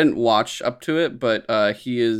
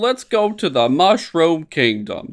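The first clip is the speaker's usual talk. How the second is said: drawn-out, higher Brooklyn-Italian movie line; Brooklyn-ish Italian accent; 5 semitones higher, 4 dB louder, slower than usual. Retold or imitated. Cohost quoting the trailer's Mario, Brooklyn-ish Italian accent. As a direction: lightly put on a New York Italian accent. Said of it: "a Brooklyn-ish New York Italian accent".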